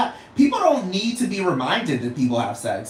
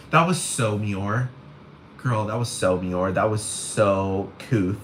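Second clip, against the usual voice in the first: camp gay voice; 8 semitones lower, 3 dB quieter, slower than usual. Retold or imitated. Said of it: "the gays would be like".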